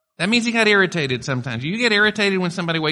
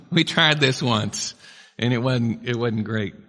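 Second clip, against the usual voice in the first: reluctant disciples; 5 semitones lower, slower than usual. Retold or imitated. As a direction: lightly play the doubtful fishermen. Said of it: "And they're like".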